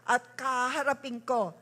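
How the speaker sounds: loud fervent prayer declaration; loud, urgent preacher's prayer; preaching at full force. Acted. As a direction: proclaim it over the congregation like a revival preacher.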